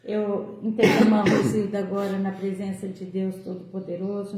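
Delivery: talking through hiccups; speaking with the hiccups. Real, not acted. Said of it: "tô com soluço".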